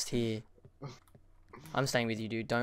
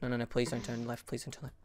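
desperate whispered begging; being chased. Real, not acted. Monster coming, pleading while hiding.

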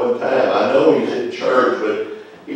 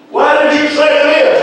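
much higher, louder, astonished; incredulous question; 11 semitones higher, 4 dB louder than usual. Retold or imitated. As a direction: lift it right up in disbelief. Repeated question, pitched high.

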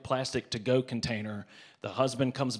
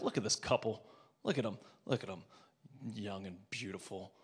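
softly voiced judging mother; a quiet, sneering read of the couple; imagined mother's thoughts; 3 dB quieter than usual. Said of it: "her thought process was like".

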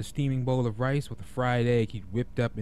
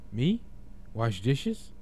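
petulant surprise; much slower than usual. Acted. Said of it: "exclaimed in surprise, sounding like a petulant child".

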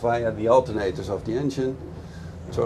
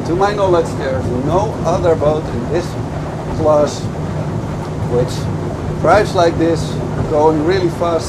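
louder, projecting over engine noise; raised voice; 3 semitones higher, 5 dB louder than usual. Real, not acted. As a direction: talk up over a speeding boat. Reviewing boat at speed over engine.

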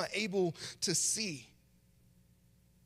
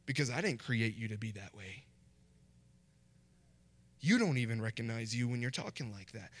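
lightly voiced, lower puzzled God; a hint of God, baffled by stiff prayer; 8 semitones lower than usual. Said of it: "the Lord's probably sitting up there like".

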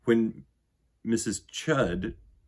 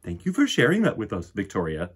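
teacher; 6 dB louder than usual. Acted. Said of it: "said Missus Chud".

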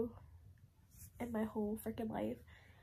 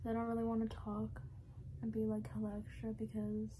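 numb mouth after surgery; talking with a numb, sore jaw; after wisdom teeth. Real, not acted. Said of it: "still a little numb".

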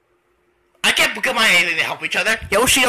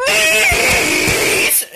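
high, drawn-out plea; hammed-up begging. T-Man begging Yoshi to be friends, high pleading cry. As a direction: beg in a high mock wail.

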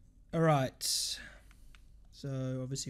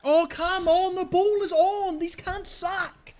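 high, loud, slow groan of frustration; real annoyed outburst, pitched up; exasperated shout; 11 semitones higher, 5 dB louder, slower than usual. Real, not acted. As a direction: plead with the game in disgust. Exasperation at passing.

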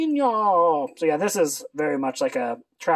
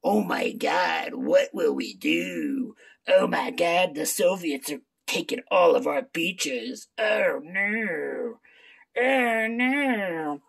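slow, hammed-up B-movie dread; over-the-top fake distress; mock panic; slower than usual. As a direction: play a campy damsel facing invaders. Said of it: "because it's like".

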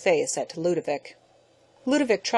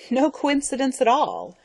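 short and curt; 8 semitones higher than usual. A narrator's reading. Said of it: "said Ludovic shortly".

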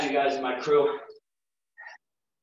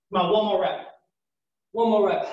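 coach encouraging; 5 semitones higher than usual. Real, not acted. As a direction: urge them through the rep. Pushing class on last rep.

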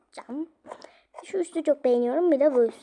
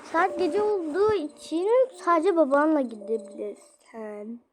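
a bit higher, put-on mom voice; mother voice; 4 semitones higher than usual. Mother telling daughter to go with dad, put-on voice. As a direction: lay down the rule like a mom. Mother doll sets rule.

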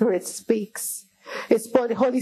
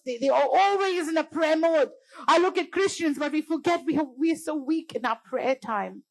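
raised-pitch, exhorting sermon delivery; impassioned preaching; 5 semitones higher than usual. Real, not acted. Preacher comparing Christians with other faiths, impassioned preaching. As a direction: push the contrast in a high preaching voice. Preacher laments weak prayer.

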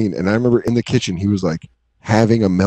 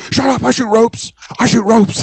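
mock yell; 11 semitones higher than usual. Roommate insisting on his manhood, high mock yell. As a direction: yell it like a wounded brag. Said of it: "He just yelled that one day".

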